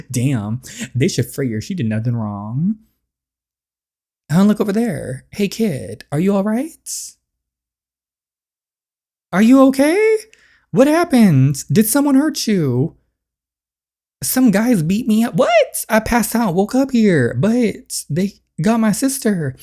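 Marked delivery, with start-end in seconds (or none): 4.3-13.0 put-on raised, worried call to the kid; alarmed calling out. Finding a beaten kid, calling out in alarm. 14.2-19.6 put-on high, shaken young boy voice; a beaten kid blurting out what happened; frightened kid. Hurt kid telling strangers what happened, frightened and high.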